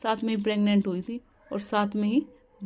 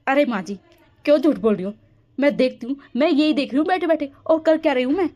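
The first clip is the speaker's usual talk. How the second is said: angry accusation; 5 dB louder than usual. Acted. Daughter-in-law accusing mother-in-law of lying, loud. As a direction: accuse her of lying, loudly.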